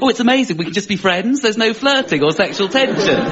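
women's gushing thoughts. Retold or imitated. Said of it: "in their head they're going".

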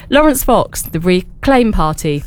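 slow, measured formal news read; serious news voice. Pretend. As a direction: read the list like a solemn newsreader. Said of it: "the most serious news voice that I can".

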